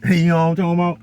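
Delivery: high, loud, laughing through the words; laughing hard at the friend's line. Real, not acted. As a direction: crack up again. Laughing at the memory again.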